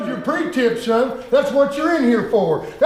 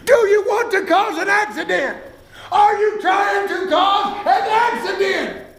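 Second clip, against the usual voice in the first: shouting rant; 6 semitones higher than usual. Acted. Instructor ranting about mirrors.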